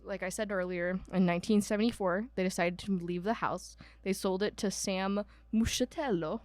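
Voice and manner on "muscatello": name said with an Italian accent. Real, not acted. Host slipping into Italian accent on a buyer's name, Italian accent. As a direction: give the surname an Italian lilt. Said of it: "with an Italian accent".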